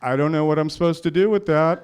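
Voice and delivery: terrified but laughing; laughing fear. Retold or imitated. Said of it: "that's not out of a nightmare".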